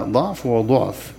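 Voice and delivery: ضعف said first with fatha on the dad, then وضعف with damma, slow. Shown as a demonstration. Teacher models both readings of ضعف, slowly. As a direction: contrast the open and the rounded dad. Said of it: "تقرأ بفتح الضاد وضمها".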